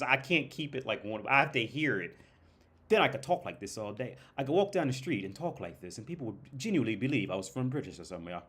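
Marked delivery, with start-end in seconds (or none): 2.9-8.4 lightly imitated posh British accent. Shown as a demonstration. Vlogger claiming he could pass as British, posh British accent. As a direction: chat along in a put-on British accent. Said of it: "now I'm getting too poshy".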